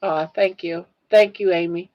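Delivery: thanking viewers through tears; teary. Real, not acted. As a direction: still tearful, calming down. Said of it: "I'm sorry I get like that".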